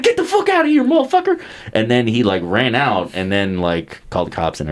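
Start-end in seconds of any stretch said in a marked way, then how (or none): 0.0-1.4 hammed-up angry yell at a burglar; retold yell at burglar. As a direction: bark it out like chasing a burglar. Dad yelling at burglar in story.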